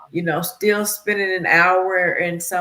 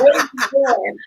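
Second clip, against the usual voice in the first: talking to herself; 6 semitones higher, 6 dB louder than usual. Retold or imitated. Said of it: "I was like".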